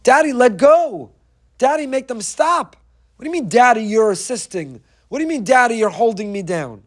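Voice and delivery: put-on high, loud, desperate child's cry; crying out for daddy. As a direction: plead like a frightened child held down. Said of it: "He's yelling".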